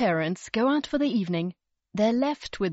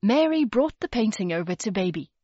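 ordinary delivery

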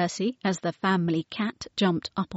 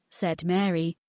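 plain reading voice

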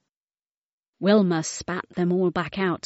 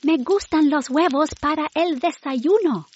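high, eager little whale voice; excited cry; 9 semitones higher, 4 dB louder than usual. Acted. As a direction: call out with excitement. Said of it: "cried Wilma".

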